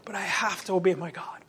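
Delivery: quietly regretful but firm; humble apology. Retold or imitated. Apostles answering rulers, softly and humbly. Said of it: "It's always like".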